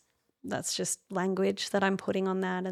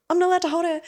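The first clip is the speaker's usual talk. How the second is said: much higher, louder, alarmed; startled protest; 9 semitones higher, 7 dB louder, much faster than usual. Retold or imitated. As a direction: gasp the words out in disbelief. Baby placed in her arms.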